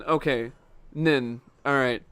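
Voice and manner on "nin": Nin with a short "i" vowel. Shown as a demonstration. Confirming the name's last syllable, short Nin. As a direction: say Nin to rhyme with "pin". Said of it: "It's pronounced".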